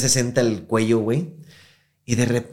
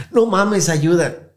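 retold cry for help; 8 semitones higher, 6 dB louder, much slower than usual.

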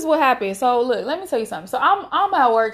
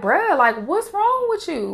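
high-pitched incredulous challenge; retold baffled exasperation, pitch leaping up; exasperated disbelief; 6 semitones higher than usual. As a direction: ask it like you can't believe them. Retelling reaction to rude callers.

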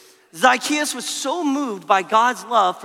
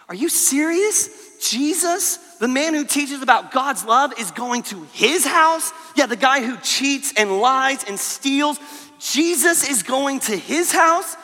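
high incredulous gossip; disbelieving crowd; 3 semitones higher than usual. Retold or imitated. Crowd gossiping in disbelief about Jesus, incredulous. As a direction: ask it in shocked disbelief. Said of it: "they were whispering among themselves like".

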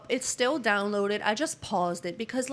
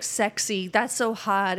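loud mock flirting; 4 dB louder, slower than usual. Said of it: "it was like".

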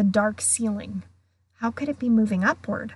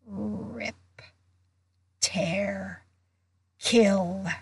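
cold murderous voice; much slower than usual. A narrator's reading. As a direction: hiss each word like a hungry beast in the walls. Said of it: "the same cold, murderous voice".

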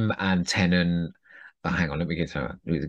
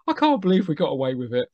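laughing quote; 8 semitones higher than usual. Retold or imitated. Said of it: "is laughing and going".

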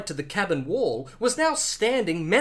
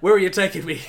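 laughing; 5 dB louder, much faster than usual. Acted. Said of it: "interrupted Bond".

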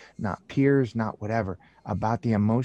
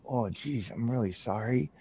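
awkward sympathy; 7 dB quieter than usual. Retold or imitated. Hearing friend's son has cancer.

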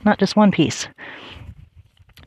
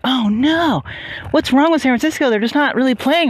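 higher-pitched mild dismay; worried fan; 5 semitones higher than usual. Retold or imitated. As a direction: replay a fan's fretting, lightly acted. Re-enacts worry during the game.

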